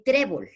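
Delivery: "trébol" stressed on TRÉ, falling after; stress on the first syllable. Shown as a demonstration. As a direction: say "trébol" loud on TRÉ, dropping on bol. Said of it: "se le marca la tilde en la penúltima".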